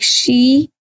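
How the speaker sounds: slow, word by word, repeating each chunk; slow dictation. Shown as a demonstration. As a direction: dictate it slowly for the class to write down. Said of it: "write the sentence like".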